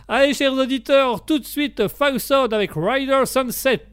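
put-on radio announcer mangling English accent; botched English accent. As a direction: announce the artists slowly in a bad English accent. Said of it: "pour qu'on en arrête les accents".

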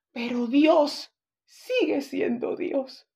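put-on slow, far-off little child's answer; a hint of a small boy, slow and sure; lightly voiced child. A boy answering the missionary, slow and lightly childlike. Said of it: "el niño le contesta".

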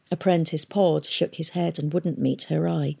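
ordinary delivery, nothing marked

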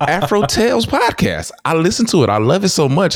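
put-on high, light little old lady voice. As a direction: squeak it out like a sweet elderly fan.

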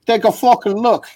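exasperated retort. Retold or imitated. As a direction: toss it back like it's obvious. Bobby answers how Richie's doing.

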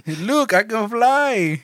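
high goofy voice. Pretend. Joking about fence-climber boots.

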